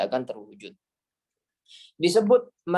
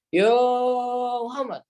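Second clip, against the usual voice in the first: calling across a beach; 9 semitones higher, 3 dB louder than usual. Shown as a demonstration. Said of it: "di tengah pantai itu, manggil ke temannya".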